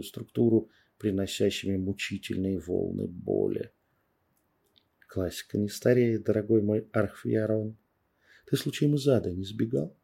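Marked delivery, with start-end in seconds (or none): 5.1-10.0 tender mockery. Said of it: "С почти нежной улыбкой риторически спрашиваю".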